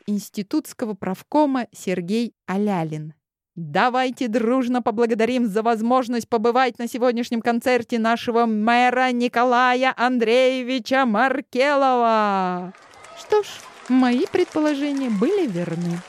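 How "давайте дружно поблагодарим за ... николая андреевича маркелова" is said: emcee announcement. Acted. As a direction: stretch the name like a ringmaster. Emcee thanks the mayor.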